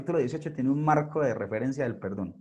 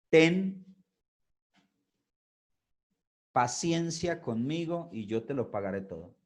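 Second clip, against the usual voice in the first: pleading consiervo; 3 dB quieter than usual. Acted. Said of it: "le rogaba diciendo".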